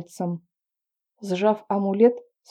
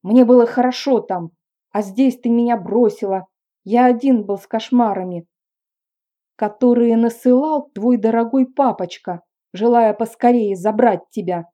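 louder snapping outburst; angry bark; 3 semitones higher, 7 dB louder than usual. A narrator's reading. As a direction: bark it at him in anger. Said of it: "рявкнула я". (громкий злой рык)

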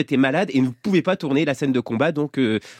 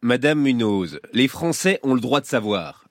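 solemn politician's address. Acted. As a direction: speak like a politician at a podium. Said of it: "J'adore, j'adore parler comme un politicien".

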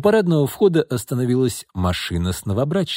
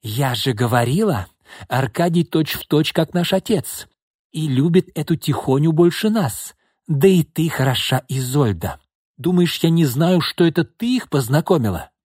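bitter accusing; 3 semitones higher than usual. Acted. Jilted sister accuses sister.

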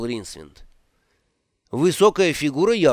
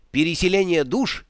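excited exclamation; 4 semitones higher than usual. Acted. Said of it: "возбуждённо воскликнул он".

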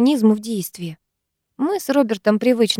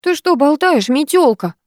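higher-pitched stern demand; stern question; 7 semitones higher than usual. A narrator's reading. Карина challenging a gossiping classmate, stern. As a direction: ask it sternly. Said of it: "спросила строго Карина".

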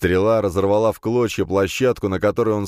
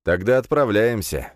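tense voice; 4 semitones higher than usual. Acted. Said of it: "напряжённым голосом ответил я".

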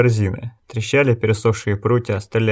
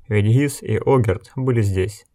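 plain reading voice

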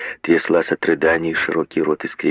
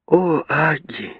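higher, relieved greeting at the door; relieved exclamation; 9 semitones higher than usual. A narrator's reading. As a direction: exclaim as the fear drains away. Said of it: "воскликнула миссис Броуди с некоторым облегчением".

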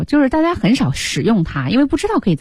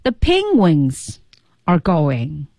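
slow demo; 3 semitones lower, much slower than usual. Shown as a demonstration. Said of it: "那Marty就说".

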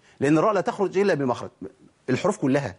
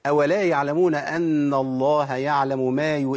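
measured, drawn-out tajweed reading; slow Quran recitation; much slower than usual. Shown as a demonstration. Teacher recites a verse as example, slow tajweed. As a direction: recite slowly with sustained vowels.

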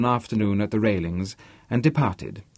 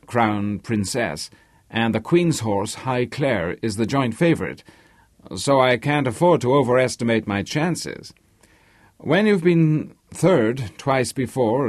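nervous, talkative horse owner; 2 semitones higher than usual. Acted. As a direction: lightly play an owner weighing his chances. Narrator voices Harvey answering the banker.

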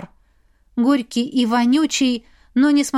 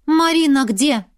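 raised urgent question; calling over noise; 4 semitones higher, 4 dB louder than usual. Acted. Mother shouts over the noise for her daughter. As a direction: push it over the music.

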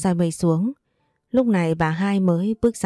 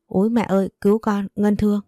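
lightly raised, hammed-up fake distress; faked cry for help; 2 semitones higher than usual. Rival fakes a fall before the mother-in-law, mock wail. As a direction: play the wounded victim, half in jest. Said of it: "và la lên".

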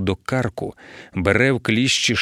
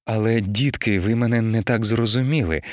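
blushing. Acted. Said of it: "почервоніла пані Ліндерова".

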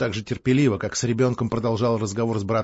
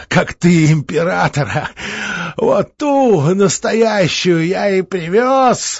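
laughing; 7 semitones higher, 6 dB louder, slower than usual. Acted. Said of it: "Он засмеялся".

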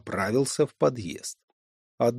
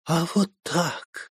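put-on drunken hiccup; 5 semitones higher, slower than usual. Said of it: "пьяно икнула Саша".

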